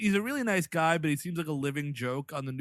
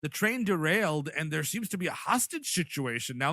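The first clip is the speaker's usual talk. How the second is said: bad Canadian accent. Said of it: "now I'm doing a bad Canadian accent".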